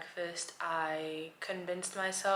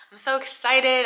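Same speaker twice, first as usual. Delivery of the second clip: louder, higher burst of real excitement; really excited; 6 semitones higher, 12 dB louder than usual. Real, not acted. After her college meeting, gushing with excitement. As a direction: let the joy spill over.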